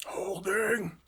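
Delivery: breath-only playful whisper; whispered echo. Pretend. Co-host echoes the host's "are you holding", whispering. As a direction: whisper the word back, no voice.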